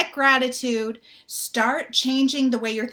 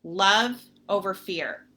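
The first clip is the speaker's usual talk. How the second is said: calming mantra. Retold or imitated. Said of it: "I calmed myself".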